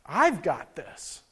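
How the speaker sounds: calm him down gently and slowly; voice of God. Retold or imitated. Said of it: "the Spirit of God speaking to me and saying".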